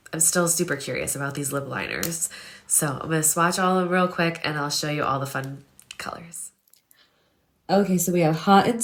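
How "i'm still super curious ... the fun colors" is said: whispering. Real, not acted. Quiet swatching aside.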